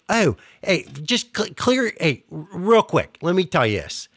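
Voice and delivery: dropping into Pittsburghese; Pittsburghese accent. Shown as a demonstration. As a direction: launch into a Pittsburgh accent on request. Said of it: "So do it".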